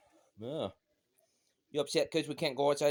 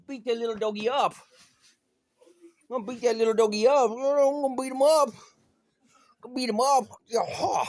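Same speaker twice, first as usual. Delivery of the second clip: higher, louder teasing threat; playful threat; 6 semitones higher, 4 dB louder than usual. Pretend. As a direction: tease the dog, rev it up. Playful mock threat to the dog.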